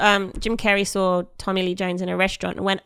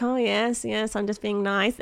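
soft, imitated politeness; softly voiced fake niceness; smiling pretence; 7 dB quieter, slower than usual. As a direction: quietly play nice for the guests. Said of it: "smiling to his guests".

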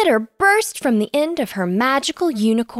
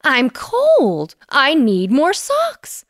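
slow, louder, blunt creature line; blunt monster; 4 semitones higher, 4 dB louder, slower than usual. A narrator's reading. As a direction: state it flatly, no excuses. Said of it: "the creature said bluntly".

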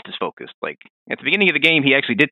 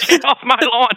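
put-on old prospector; 10 semitones higher, 5 dB louder than usual. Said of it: "Old Man Ishin".

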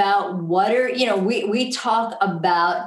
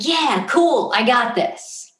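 excited; 3 semitones higher, slower than usual. Retold or imitated. Coach voicing her excitement at a hard thing, upbeat. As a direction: brush off the challenge with confident glee. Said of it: "that excitement".

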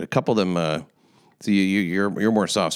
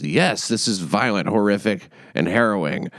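mocking. Shown as a demonstration. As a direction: drag it out like it's too obvious to say. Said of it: "as if that's not obvious".

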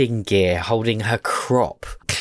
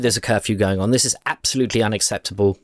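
scolding Missus Neep; much faster than usual. Acted.

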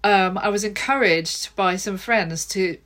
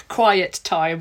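"quiet" leaned on harder than "time"; pointedly stressed "quiet", then "time" falling away. Shown as a demonstration. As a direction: put the emphasis on the word "quiet". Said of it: "with the emphasis on quiet".

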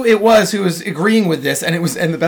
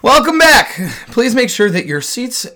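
flight attendant; 5 semitones higher than usual. Pretend. Mock flight announcement.

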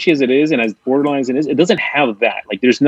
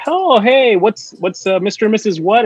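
higher-pitched imitation of a salesman's greeting; character voice; 9 semitones higher, slower than usual. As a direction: lightly act out the schmoozing movie character. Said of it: "have them do the voices".

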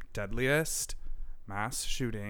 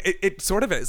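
ordinary delivery

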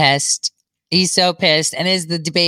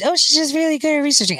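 mocking quote; 8 semitones higher, faster than usual. Mocking what doubters say.

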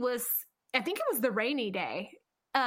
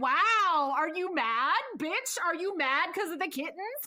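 higher-pitched, teasing incredulity; retold sarcastic needling, pitched up; mock taunt; 5 semitones higher than usual. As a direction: rub it in with exaggerated disbelief. Reads aloud her mocking text.

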